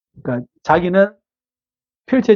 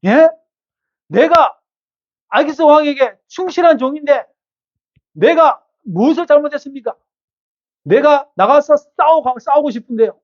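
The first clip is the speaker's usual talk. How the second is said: raised, pleading protest, much higher; David protesting; 8 semitones higher, 3 dB louder than usual. Acted. 충성된 종이 억울하게 항변하는, 높고 애원하는 목소리. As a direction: plead your loyalty, voice climbing high. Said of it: "다윗이 항변합니다".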